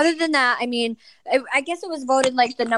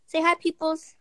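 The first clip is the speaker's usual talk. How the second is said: higher sing-song coaxing; 5 semitones higher, 4 dB quieter than usual. Real, not acted. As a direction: sweet-talk the little one. Coaxing a toddler to talk.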